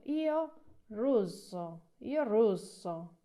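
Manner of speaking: russo drawn out slowly, stress on the double S; slow repeat-after-me, hold the SS in russo; slow model pronunciation. Shown as a demonstration. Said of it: "Ojo con la acentuación con la doble S". (pronunciación lenta de russo, doble S marcada)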